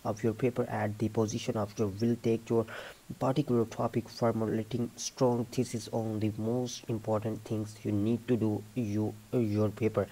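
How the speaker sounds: careful test-passage reading; read-aloud demo. Shown as a demonstration. Teacher reading a sample passage for students, read-aloud demo.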